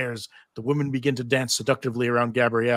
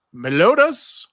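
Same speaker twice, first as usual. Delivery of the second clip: calling out; 5 semitones higher, 6 dB louder, slower than usual. Acted. Calling for a missing friend.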